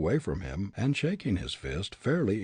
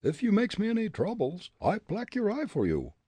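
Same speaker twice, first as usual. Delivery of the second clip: put-on higher, firm Dutch-accented voice; Dutch accent retort; 11 semitones higher than usual. Fritz refusing the bully, defiant Dutch accent.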